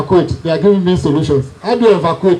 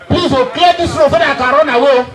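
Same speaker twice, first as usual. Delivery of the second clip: laughing plea; 5 semitones higher than usual. Retold or imitated. Child begging to escape.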